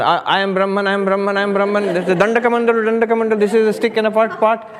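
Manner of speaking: annoyed shout. Retold or imitated. Janaka shouting his mantra to drown out Shukadeva. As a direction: shout the mantra at him in irritation. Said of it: "Why do you have to shout?".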